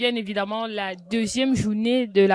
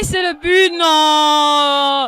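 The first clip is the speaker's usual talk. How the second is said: goal shout; 6 semitones higher, 11 dB louder, slower than usual. Real, not acted. Goal call at live match.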